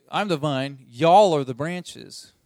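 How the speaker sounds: a light Southern drawl on y'all, slowed; mock Southern Bible reading; Southern Jesus. Preacher joking how a Southern Bible would put it, light Southern accent. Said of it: "if this was a Southern Bible".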